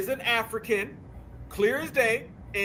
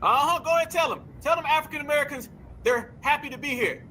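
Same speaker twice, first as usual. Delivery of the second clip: mocking heckle; 6 semitones higher than usual. Real, not acted. Heckling a played clip.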